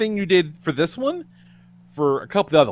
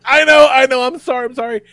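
flustered apology; 8 semitones higher, 7 dB louder than usual. Retold or imitated. Waitress apologising again.

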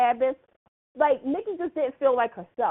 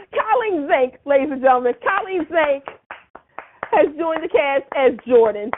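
rising, louder announcer build-up; hype announcement; 5 dB louder than usual. Real, not acted. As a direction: present her like a big star entrance. Announcing the star's return.

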